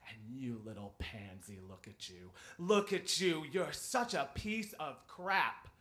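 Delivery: mounting retold contempt; contemptuous berating. Retold teacher berates the crying pupil.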